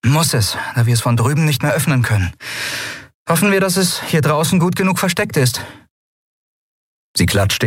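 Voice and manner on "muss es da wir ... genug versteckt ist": higher captain voice, hurrying to the end; brisk captain pushing fast past her fear; quick higher voice of a nervous captain. Acted. Endriel explains.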